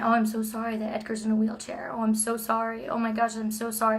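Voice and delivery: mock sympathy. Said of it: "people apologize to me".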